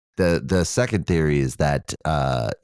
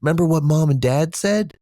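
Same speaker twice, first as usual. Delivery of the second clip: very high, louder imitation mouse back-and-forth; puppet mouse voice; 13 semitones higher, 5 dB louder than usual. Mouse siblings recalling the parents' rule, high puppet voices. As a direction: play squeaky puppet siblings debating. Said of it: "And she".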